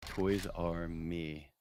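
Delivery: lightly voiced slow, low impression; Lance Reddick. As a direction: draw it out low and measured. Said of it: "if we're gonna do voices".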